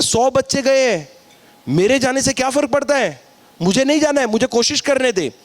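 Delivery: put-on defiant young Arjun. Arjun arguing back with Duryodhana.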